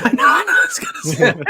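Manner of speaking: talking through a real laugh. Real, not acted. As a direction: giggle while getting words out. Laughing at being called hater.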